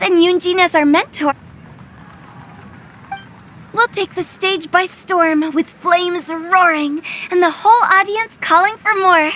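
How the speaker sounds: measured, rhythmic showpiece delivery; rhyming verse recital. Acted. Funeral director practicing rap about the coming show, rhythmic verse recital. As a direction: recite it as a performed rhyme, beat by beat.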